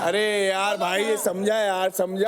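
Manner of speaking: low, restrained pleading; exasperated plea. Real, not acted. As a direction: beg them to back off, voice dropped. Exasperated plea to be left alone.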